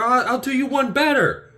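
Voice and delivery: high and loud, then dropping back; mock one-upping. Star-Lord one-upping the question, high then sinking. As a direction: escalate each line, then deadpan. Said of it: "he's like".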